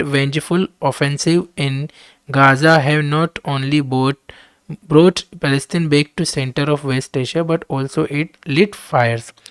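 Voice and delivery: reading the English text out very slowly and deliberately; slow dictation reading. Acted. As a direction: spell out each word for students to follow. Reads editorial aloud slowly. (धीमी गति से पाठ पढ़ना)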